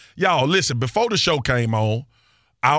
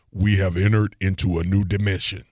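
low, deep movie-intro voice; 6 semitones lower than usual. Shown as a demonstration. Host showing off his voiceover skills to his co-host, deep voice. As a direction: drop the pitch low for an epic announcement. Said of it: "say it again in the deep voice".

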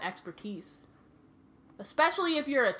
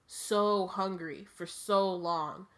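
cold murderous whisper; much slower than usual. Acted. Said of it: "cold, murderous voice".

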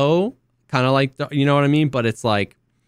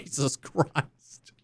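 softer, slow, exhausted sigh of a phrase; overwhelmed mutter; 3 semitones higher, 9 dB quieter, much slower than usual. Retold or imitated. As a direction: breathe it out, totally daunted. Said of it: "I'm like".

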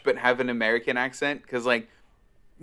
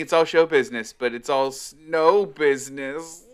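put-on Dutch accent; slower than usual. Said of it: "trying to do the Dutch accent again".

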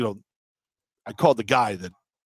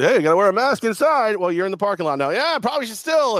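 acted exchange; 9 semitones higher, 4 dB louder than usual. Acts out exchange at exit.

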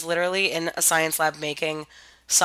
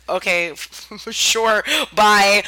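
unbothered shrug; 3 dB louder, much slower than usual. Retold or imitated. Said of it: "react a little more like".

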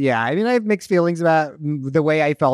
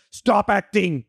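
put-on Indian accent; 5 semitones higher, slower than usual. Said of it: "Why does he have an Indian accent?".

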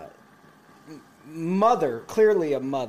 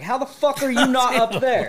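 higher, animated mock disbelief; incredulous egging-on; 7 semitones higher, 4 dB louder than usual. Teller urging a stranger toward the women, incredulous. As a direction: egg him on, baffled he hasn't moved.

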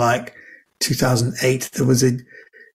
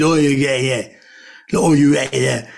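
sheep-heard mumble. Shown as a demonstration. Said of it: "the way a sheep hears it".

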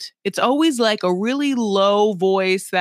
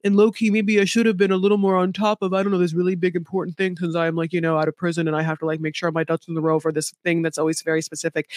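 mock excuse; 2 semitones lower, faster than usual. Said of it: "he makes it seem like".

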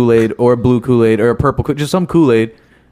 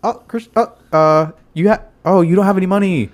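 lunch lady; 6 semitones higher than usual. Retold or imitated. Lunch lady telling kid no money.

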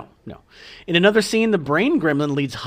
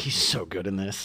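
put-on Mid-Atlantic accent; 7 semitones lower, 6 dB quieter than usual. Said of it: "You're doing the Mid-Atlantic accent".

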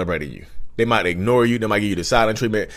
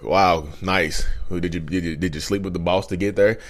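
lower, softer fake congratulation; snide, understated; 4 semitones lower, 3 dB quieter than usual. Narcissist answering news of a promotion, quietly snide. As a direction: belittle the news in a dropped voice.

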